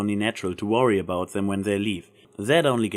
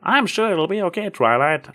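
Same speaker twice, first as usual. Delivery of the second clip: comforting; 8 semitones higher, 4 dB louder than usual. Acted. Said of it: "Applejack said comfortingly".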